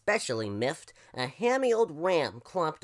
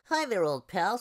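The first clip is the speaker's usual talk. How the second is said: lightly voiced chummy crow, higher; smiling crow; 4 semitones higher than usual. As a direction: greet an old pal as a crow. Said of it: "said the crow with a smile".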